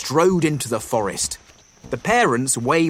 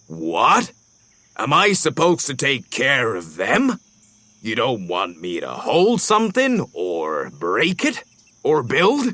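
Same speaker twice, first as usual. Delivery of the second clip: flustered bison. A narrator's reading. Bison startled by kids.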